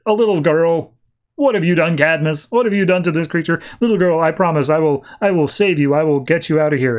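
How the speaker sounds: lightly hammed-up distress and resolve; dramatic heroic vow. Power Girl promising to save the little girl, mock-earnest. Retold hero vowing rescue.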